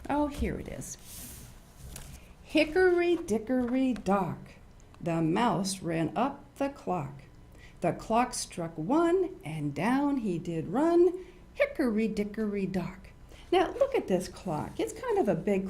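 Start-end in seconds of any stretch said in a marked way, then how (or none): 2.4-13.0 slow, sing-song nursery rhyme; storybook rhyme recital; rhyme reading. Acted. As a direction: recite it slowly for little kids. Reads nursery rhyme aloud.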